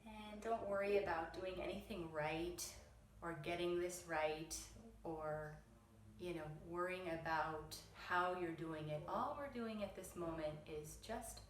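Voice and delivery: unhurried meditation voice with long pauses; gentle, measured mindfulness guidance; guided meditation. Real, not acted. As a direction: ease them into stillness, leaving space between phrases. Leads eyes-closed meditation.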